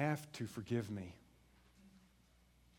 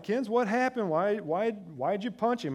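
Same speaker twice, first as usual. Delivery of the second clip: stern dad questioning; 9 semitones higher, 8 dB louder than usual. Retold or imitated. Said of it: "I'm like".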